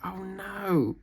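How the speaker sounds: whispered dismay. Real, not acted. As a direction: whisper it, caught out. Forgets a reindeer name.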